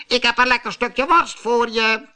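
high coaxing troll voice. A narrator's reading. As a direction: tempt the bear in a high troll voice. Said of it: "zei een andere trol".

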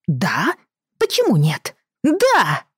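put-on high, insistent boy's voice; a spoiled kid pushing back, rising; whiny child. Boy refuses to accept no.

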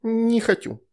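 very high, sulky no; pouty child refusal. A narrator's reading. Veronika turning down the shadow's candy, high and sulky. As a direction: refuse like a spoilt little girl.

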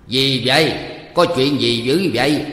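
loud, startled demand to know; alarmed questioning. A narrator's reading. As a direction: burst in asking what's wrong. Husband rushes in at the uproar.

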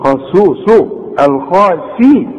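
mocking a garbled خاسوسو الخاسي, slowed; hammed-up mispronunciation of الخاسرون; mock mangled word. Shown as a demonstration. Teacher mocks a student's sloppy reading, mangling it. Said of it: "ما تقولش".

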